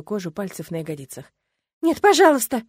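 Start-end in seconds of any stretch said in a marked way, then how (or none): 1.8-2.6 higher and louder, begging through tears; tearful pleading. Acted. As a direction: plead while sobbing. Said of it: "Заливаюсь слезами". (мольба сквозь слёзы, высоко)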